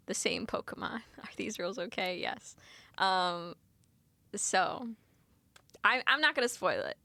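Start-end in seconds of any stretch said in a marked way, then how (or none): 0.1-2.5 soft unvoiced whisper. Real, not acted. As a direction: whisper it like a secret. Whispering while choosing rules.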